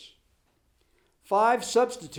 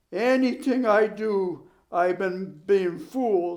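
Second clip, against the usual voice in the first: slow, heavy, glum admission; gloomy; 3 semitones higher, 5 dB louder, slower than usual. Acted. Ole answering his coach, slowly and gloomily. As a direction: drag the words out in gloom. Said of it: "said Ole gloomily".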